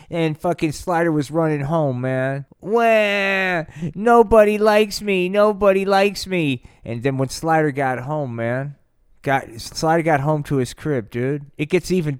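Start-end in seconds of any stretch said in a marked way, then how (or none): 2.6-6.6 put-on high, loud babyish wail; mock crybaby whine. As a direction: blubber it like a sulking kid. Slider whining crying.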